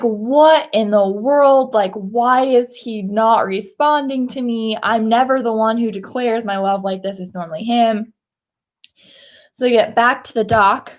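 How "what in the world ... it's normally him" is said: lightly acted indignation; mildly pissed off. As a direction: retell a wife's annoyed disbelief, stretching the first words. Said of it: "she's just pissed off".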